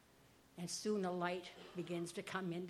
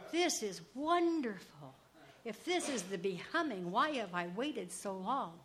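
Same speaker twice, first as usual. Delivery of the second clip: awed and thrilled, not held back; delighted wonder; 3 semitones higher, 4 dB louder than usual. Acted. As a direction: savour the joy of it. Pumpkin delighted by being washed.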